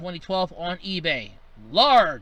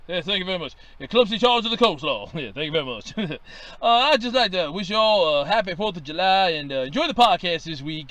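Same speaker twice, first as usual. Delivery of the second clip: a lightly lowered professor voice; Professor Crump voice; 3 semitones lower, faster than usual. Acted. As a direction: keep the folksy professor voice. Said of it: "This is Professor Sherman T. Crump".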